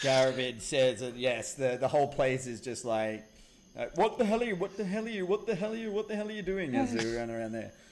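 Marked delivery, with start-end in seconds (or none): 3.9-6.7 put-on fast, high Welsh Indian accent. A voice echoing through the place at people running around, in a Welsh Indian accent. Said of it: "That really sounded like Welsh Indian then".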